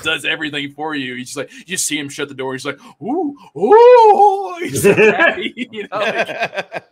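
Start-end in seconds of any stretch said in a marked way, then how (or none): 3.0-4.5 high, loud squealing ooh ooh; delighted squeals. Retold or imitated. Friend imitating Randy's ecstatic squeal on the toilet. 4.6-6.8 laughing through the words. Real, not acted. Telling the toilet story while laughing hard.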